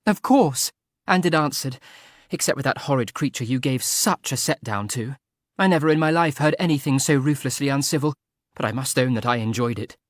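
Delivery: high and bright, laughing through it. A narrator's reading. Excited laughing talk. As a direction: Frederica laughing with Arthur over the hound. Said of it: "She began to laugh again".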